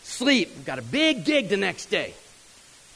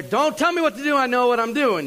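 put-on higher, louder, snapping back like a cocky kid; know-it-all kid snapping; 5 semitones higher, 4 dB louder than usual. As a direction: brush off the warning, sure you know best. Cocky roadie snaps back.

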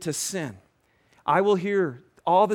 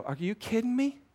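mild, higher-pitched scolding with pauses; scornful berating; 4 semitones higher than usual. Acted. Accusing voice berates a repeat sinner, mildly scornful. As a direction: scold in incredulous, separate jabs.

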